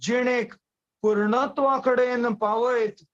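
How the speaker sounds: measured Konkani verse, phrase by phrase; poem recitation. Acted. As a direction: recite the poem with pauses between short phrases.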